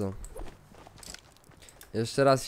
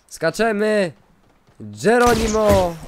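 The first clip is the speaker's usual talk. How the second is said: shouting; 4 semitones higher, 7 dB louder, slower than usual. Real, not acted. Jumping down in game.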